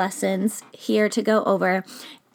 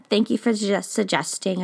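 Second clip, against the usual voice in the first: stumbled, broken-off phrasing; stumbling over words. Real, not acted. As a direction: trip over the words, then recover. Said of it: "I stumbled over my words".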